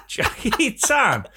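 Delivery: giggling as you repeat it; laughing. Real, not acted. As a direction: say the name through laughter. Laughing repeat of a joke name.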